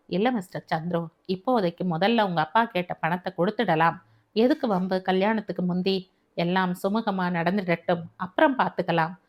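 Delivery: a touch of a placating elder, quick at first; hint of a conciliatory host; lightly voiced Perumal Samy. Narrator voices conciliatory older host.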